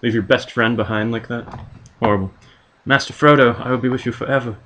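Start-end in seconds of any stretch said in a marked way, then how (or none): 2.8-4.6 a hint of Sam's earnest voice; lightly voiced Sam. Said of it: "says Sam".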